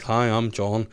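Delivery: put-on half-hearted Liverpool accent; a band's Liverpool accent. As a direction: lightly imitate a band member's Liverpool speech. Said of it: "the way the Beatles speak, like, with an accent".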